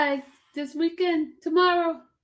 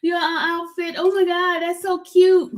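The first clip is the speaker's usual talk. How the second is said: imitating the lady; 6 semitones higher, 4 dB louder than usual. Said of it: "And she was like".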